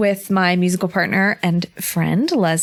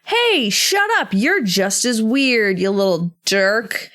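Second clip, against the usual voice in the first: tough character; slower than usual. Acted. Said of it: "Wicked Cup is like".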